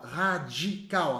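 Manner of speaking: radical drawn out slowly; slow emphasis. Shown as a demonstration. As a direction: stretch radical to make it stick. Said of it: "O radical". (radical bem devagar e destacado)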